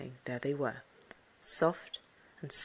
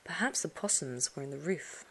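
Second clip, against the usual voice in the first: whispered, softer; hushed thought; 7 dB quieter than usual. A narrator's reading. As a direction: murmur it to yourself in the dark. Scared narrator in the dark.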